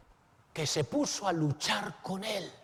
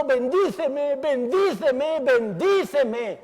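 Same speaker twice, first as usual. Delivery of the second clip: a touch of crying, higher, louder and slower; mild tearful plea; 7 semitones higher, 6 dB louder, slower than usual. Acted. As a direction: plead "Bendíceme" with a light tearful ache. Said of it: "Jacob llorando y diciendo". (Jacob llorando y suplicando, con un leve quiebre)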